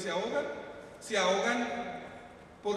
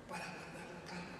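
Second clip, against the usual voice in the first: whispered, almost no voice; 4 semitones lower, 15 dB quieter than usual. Acted. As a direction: breathe the words out in a whisper. Preacher drops to a hush. (susurrando la calma)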